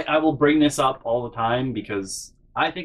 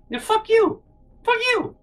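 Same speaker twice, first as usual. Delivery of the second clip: upset high-pitched retort. Retold or imitated. Telling off his family, in an upset voice gone very high. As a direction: voice jumps way up, upset and out of words. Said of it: "your voice just goes up really high".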